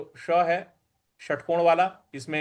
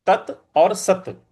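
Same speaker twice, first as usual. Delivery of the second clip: तत् and सत said apart, slowly; slow split; 4 dB louder, slower than usual. Shown as a demonstration. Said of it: "ये भगवान के नाम है". (तत् और सत धीरे अलग)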